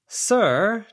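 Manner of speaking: high, loud call across the picnic area. A narrator's reading. Daniel calling out to the departing family, loud high call. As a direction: shout after someone walking away. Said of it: "Daniel called out to the departing family".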